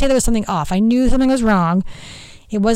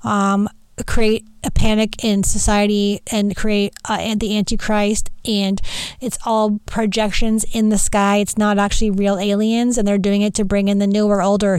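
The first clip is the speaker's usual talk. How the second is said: sleepy stupor. Retold or imitated. Wife just woken from a nap explaining to husband, sleepy. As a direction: explain it half asleep from a nap. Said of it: "in my sleepy stupor".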